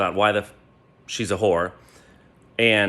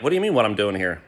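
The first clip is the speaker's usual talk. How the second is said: higher, mock-innocent retort; feigned innocence, pitched up; playing dumb; 6 semitones higher, faster than usual. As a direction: act clueless and sweetly reasonable. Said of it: "I'm playing dumb".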